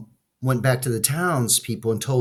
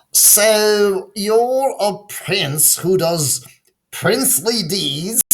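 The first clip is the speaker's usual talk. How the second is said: higher, slow whispered teasing of princely deeds; mocking townspeople; 11 semitones higher, 5 dB louder, slower than usual. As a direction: tease him under your breath. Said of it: "The townspeople laughed to themselves".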